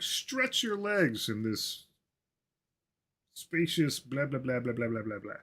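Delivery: hammed-up realtor copy that trails into placeholder babble; mock realtor pitch. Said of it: "get into my inner realtor voice".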